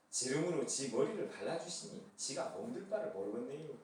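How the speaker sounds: easygoing Chungcheong dialect reading; mild Chungcheong dialect delivery. Pretend. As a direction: lay back into a gentle Chungcheong dialect. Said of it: "충청도 버전".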